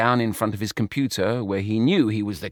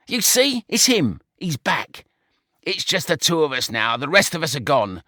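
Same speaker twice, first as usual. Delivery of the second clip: much higher, anxious; frightened George; 5 semitones higher than usual. A narrator's reading. George fearing the wolf's return, anxious. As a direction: let the dread rise.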